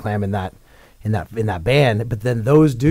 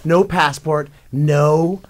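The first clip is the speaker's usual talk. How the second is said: excited laughing retelling; 6 semitones higher, 7 dB louder than usual. Real, not acted. Excited retelling of the airport ordeal.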